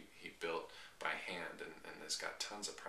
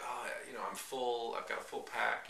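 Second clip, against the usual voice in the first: higher-pitched, mildly awkward polite refusal; awkwardly thankful; 6 semitones higher than usual. Retold or imitated. Hiker to a stranger offering food, awkwardly thankful. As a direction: act out turning down a gift gratefully. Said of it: "the awkwardness of, like, really being thankful".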